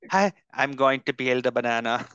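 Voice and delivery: half-hearted West Indian ASMR whisper-talk, close to his own voice; mock West Indian ASMR. Joking about a West Indian ASMR channel, lightly put-on West Indian accent. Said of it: "that's a terrible, I'm really bad at accents".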